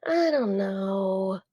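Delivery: slow, drawn-out hesitant answer; conflicted. Shown as a demonstration. Showing a human reply to the assistant, conflicted. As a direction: stretch it out, torn and unsure.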